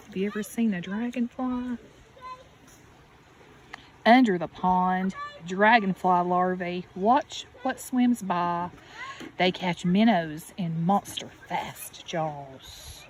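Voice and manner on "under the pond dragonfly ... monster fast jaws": gentle storybook read with a lift on each refrain; reading to children. Acted. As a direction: read it like a bedtime picture book for a little one. Reading picture book to child.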